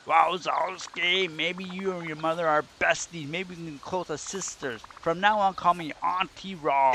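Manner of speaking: a sly boss teasing Mike; Roz voice. Acted. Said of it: "Let me get to the best Roz voice".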